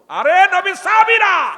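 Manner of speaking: high, loud, long-drawn hail; preacher calling out. Acted. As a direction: call out slowly at the top of the voice. Calling out within the sermon. (উঁচু গলায় টেনে ডাক)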